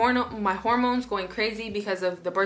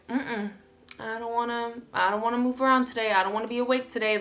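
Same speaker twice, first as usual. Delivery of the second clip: mumbly reluctance, then hurried complaints; dark mood; faster than usual. Retold or imitated. Not wanting to get up today, mildly glum refusal. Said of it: "real dark".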